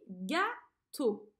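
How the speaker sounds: gâteau dit en détachant ga et teau; dictée syllabée. Shown as a demonstration. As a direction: prononce gâteau syllabe par syllabe. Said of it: "Cherche les deux syllabes". (gâteau articulé en dictée)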